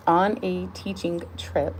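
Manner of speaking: "On a teaching trip" slow and deliberate; careful retake. Real, not acted. Reader retries after slipping into an accent, slow careful retake. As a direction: take each word of "teaching trip" slowly and firmly. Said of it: "I don't know what accent that is".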